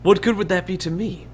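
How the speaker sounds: indignant barkeeper. Acted. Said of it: "he says".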